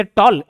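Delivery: "टॉल" as a single syllable; said in one go. Shown as a demonstration. Teacher showing a one-syllable word, "टॉल" in one go. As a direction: finish "टॉल" in one beat. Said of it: "एक बार में खत्म हो गया".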